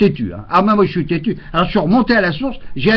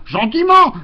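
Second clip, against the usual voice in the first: gently; 11 semitones higher, slower than usual. Shown as a demonstration.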